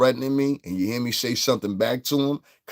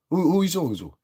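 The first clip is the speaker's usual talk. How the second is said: higher put-on tough-guy voice; mock tough-guy voice; 8 semitones higher, faster than usual. Streamer mocking a troll, put-on tough voice. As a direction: play the menacing stranger.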